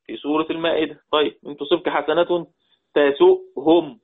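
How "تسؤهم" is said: تسؤهم said slowly and louder, the hamza marked; drawn out. Shown as a demonstration. Teacher isolating the word for students, slow and firm. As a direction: stretch out تسؤهم, pressing on its hamza. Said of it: "جواب الشرط مجزوم".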